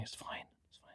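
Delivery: soft, gentle, reassuring whispered murmur under the breath. Recalling the woman in dictionary corner during a tough room, retelling an under-breath mutter. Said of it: "just sort of under her breath".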